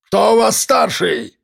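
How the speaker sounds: slow, high rough bark. A narrator's reading. Gunman demanding who is in charge. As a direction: bark the question down. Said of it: "рявкнул он".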